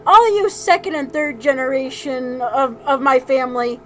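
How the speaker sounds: loud acted grandfather rant; mock tirade. Grandfather ranting at his family, mock tirade. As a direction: launch loudly into an imitated tirade. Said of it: "he went on a tirade saying".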